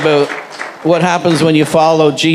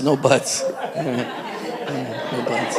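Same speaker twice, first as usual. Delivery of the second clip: chuckling; 5 semitones lower, 11 dB quieter, slower than usual. Real, not acted. Pastor laughing at the joke.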